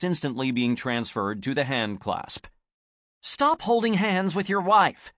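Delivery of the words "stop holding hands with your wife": high, sharp irritated order; snapped. Acted. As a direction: snap it at him. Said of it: "she snapped".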